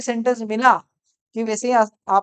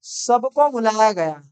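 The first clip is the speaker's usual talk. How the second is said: slow, deliberate dictation read; teacher dictating slowly to class. Shown as a demonstration. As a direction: read it out slowly for students to write down. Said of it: "next sentence".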